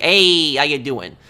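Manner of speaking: quick mock New York accent, loud Hey; imitating a Russian-born New Yorker's greeting. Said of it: "and yet he talks like that".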